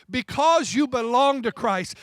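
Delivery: "because you belong to Christ" leaned on with weight on "because"; emphasized. Shown as a demonstration. Pastor stressing the key verse to his church, emphatic. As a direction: press down on "because" to drive the point home. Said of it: "I wanna emphasize it".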